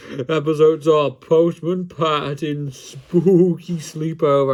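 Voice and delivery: haunting storyteller voice; spooky voice. Pretend. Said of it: "it's in a spooky voice".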